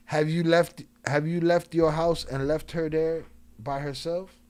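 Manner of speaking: loud, slow, pressing question; pointed grilling. Real, not acted. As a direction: lean on "left", drawn out and loud.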